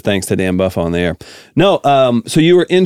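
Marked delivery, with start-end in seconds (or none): 0.0-1.2 low, quiet Giamatti voice; Giamatti impression. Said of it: "He says".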